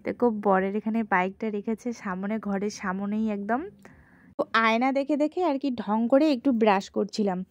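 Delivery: talking with a toothbrush in mouth; words slurred around a toothbrush; while brushing teeth. Real, not acted. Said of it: "এখন আমি দাঁত brush করছি".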